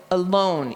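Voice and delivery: aLONE, second syllable stressed, said slowly. Shown as a demonstration. Teacher showing the accented syllable in alone. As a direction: draw out alone with the weight on LONE. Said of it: "if you think of the word alone".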